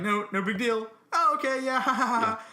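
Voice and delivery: fake carefree laugh. Masking anger at the rival coach, forced carefree laugh. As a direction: act like the jab doesn't bother you. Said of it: "on the outside".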